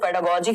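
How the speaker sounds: पेडागोजी, ending in "-jee" like the letter G; soft g pronunciation. Shown as a demonstration. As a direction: say पेडागोजी with a j sound in गोजी. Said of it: "कह देते हैं कई लोग". (पेडागोजी के अंत में "ज" का उच्चारण)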